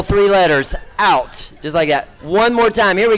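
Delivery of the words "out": "Out" clipped to a single short syllable; one-syllable out. Shown as a demonstration. Showing the crowd "Out" as one short syllable. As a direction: say "Out" as one quick syllable, no Texas drawl. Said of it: "cut it down to one syllable".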